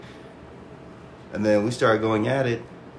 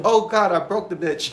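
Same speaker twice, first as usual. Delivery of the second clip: mock horror; 5 semitones higher than usual. Retold shock.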